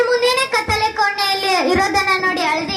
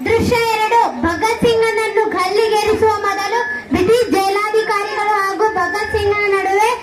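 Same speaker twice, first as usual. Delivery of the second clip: stage announcer. A narrator's reading. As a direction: announce the play to the audience. Narrator announces the next scene.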